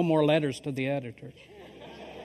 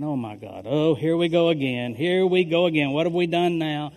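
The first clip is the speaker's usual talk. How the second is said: louder, rising exasperated worry; mock dread; 5 dB louder than usual. Pastor relives his panic, mock dread. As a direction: dread of more trouble, played up.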